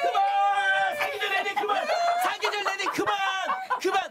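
stuck repeating loop, shouting stop; skipping cd. Pretend. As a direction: jump like a scratched disc. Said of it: "구간 반복 들어갔네요".

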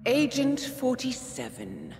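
slow, high-pitched mock address; mocking taunt. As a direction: draw the name out tauntingly. Hallucinated voice taunts the agent.

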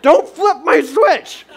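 high, slow plea through laughter; laughing plea. Retold or imitated. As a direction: beg her, half laughing. Dad pleads with his wife.

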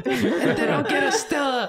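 put-on high little girl voice with Brooklyn accent; squeaky kid with a Brooklyn twist; Brooklyn Anya. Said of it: "slight Brooklyn twist".

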